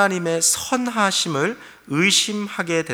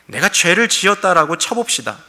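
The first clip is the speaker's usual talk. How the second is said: higher, louder mocking challenge to God; sarcastic retort; 4 semitones higher, 4 dB louder than usual. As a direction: throw the question back with scorn. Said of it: "하나님을 향해 비꼬며 말하는 거죠".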